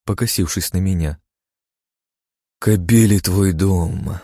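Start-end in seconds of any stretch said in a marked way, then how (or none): 2.6-4.2 deadpan retort. Acted. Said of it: "с невозмутимым видом осекла Вика".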